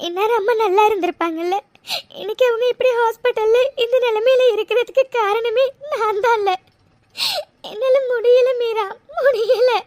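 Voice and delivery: tearful, breaking voice of guilt; crying. Acted. Mega to Meera, crying over her mother. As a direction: cry out your guilt to your friend. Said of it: "அழாத".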